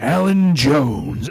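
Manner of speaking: loud, ominous, threatening wrestler voice. Retelling a wrestler's promo reply: The Undertaker impression. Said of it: "and he's like".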